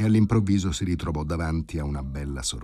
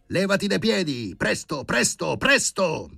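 high, loud barked orders; high-pitched yell, drawing out the repeats; frantic shouting; 14 semitones higher, 5 dB louder than usual. A narrator's reading. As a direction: yell to clear the way, urging haste. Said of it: "si mise a gridare Filippo Filippovic".

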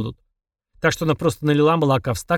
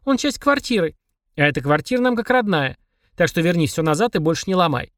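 put-on child voice; 3 semitones higher than usual. Child answers demon.

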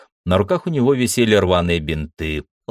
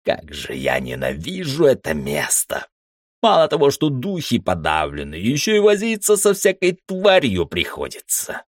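cursing under breath; 6 semitones higher than usual. Acted. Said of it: "зло пробормотал себе под нос".

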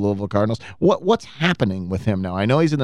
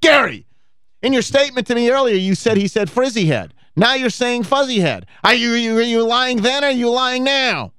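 mock interrogation; 10 semitones higher than usual. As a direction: grill him like a TV lawyer, half joking. Mock cross-examining cohost.

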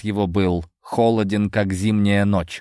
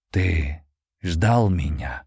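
deep low voice; 3 semitones lower, much slower than usual. A narrator's reading. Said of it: "Голос его звучал низко и глубоко".

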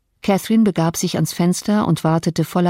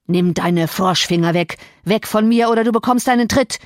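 raging shout; 2 semitones higher than usual. Acted. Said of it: "schrie Heathcliff wie rasend".

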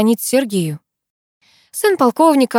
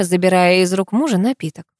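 ordinary delivery, nothing marked

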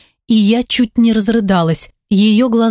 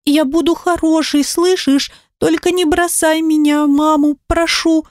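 trembling whisper; 7 semitones higher than usual. Acted. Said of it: "дрожащим от волнения голосом ... шептать".

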